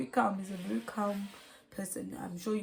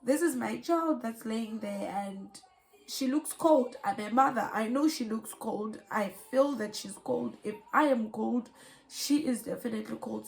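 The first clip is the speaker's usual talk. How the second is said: upset insisting; 5 dB louder than usual. Real, not acted. Upset mother defends herself.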